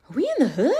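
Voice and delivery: nervous whisper, high; kid's whisper. Retold or imitated. Student whispering nervously to classmates about the sirens. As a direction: hush it like a worried child. Kid worried hearing sirens.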